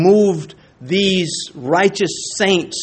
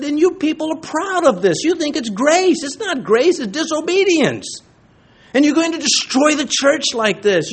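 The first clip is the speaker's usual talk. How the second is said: higher, preachy rebuke as Paul; Paul rebuking; 6 semitones higher than usual. Retold or imitated. Paul scolding the Corinthian church, raised pitch rebuke. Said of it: "and Paul said".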